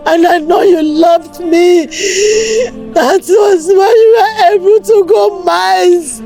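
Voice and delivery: sobbing, begging her dead husband to forgive her, breaking into cries; tearful pleading. Acted. Wife begging her dead husband's body for forgiveness, crying. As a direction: plead through tears, voice cracking into wails.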